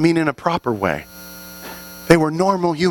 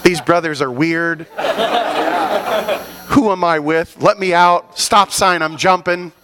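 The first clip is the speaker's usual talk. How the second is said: mock panic.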